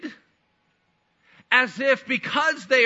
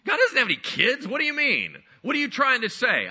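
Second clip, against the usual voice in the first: higher, mildly incredulous challenge; incredulous questioning; 5 semitones higher than usual. Acted. Listeners challenging Jesus's claim to be Son of God, incredulous.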